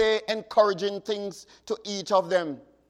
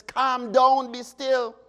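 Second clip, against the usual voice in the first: commanding Jesus; 4 semitones higher, slower than usual. Acted. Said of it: "Another interpretation says".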